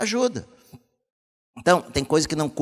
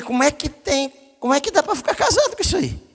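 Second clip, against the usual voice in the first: higher and fast, mock disbelief; incredulous outburst; 10 semitones higher than usual. Pastor reading an insulting message, higher, fast, incredulous. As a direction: scoff at the message in rising indignation. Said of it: "e falei".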